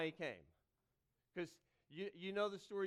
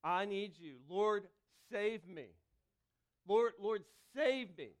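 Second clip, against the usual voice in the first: louder urgent plea, Lord lifted; crying out; 7 dB louder, slower than usual. Shown as a demonstration. Preacher showing congregation how to cry out, louder pleading. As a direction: call out to God, pleading. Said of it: "maybe we just need to cry".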